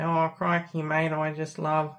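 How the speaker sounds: a light, jokey ocker Australian accent; playful mock Australian accent showing it off to a friend; stereotype Australian accent. Shown as a demonstration. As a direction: lightly put on a cartoon Aussie accent, crikey and all. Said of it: "I can speak in an Australian accent if you want".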